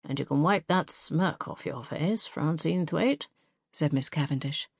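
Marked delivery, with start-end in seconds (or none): 0.0-3.3 put-on slow, dry scolding old lady; stern old headmistress. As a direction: scold her with a glint. Headmistress rebukes Francine.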